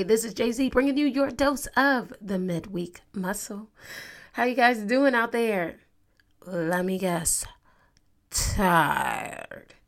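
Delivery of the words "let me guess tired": breathy whispered guess, drawn out; teasing whisper. Acted. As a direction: whisper it like you're reading their mind. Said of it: "I didn't have to say it like that".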